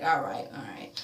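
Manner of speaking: breathy whisper, no voice. Acted. Vlogger whispering Brad's reply then the next scene, unvoiced. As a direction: drop to a hushed whisper.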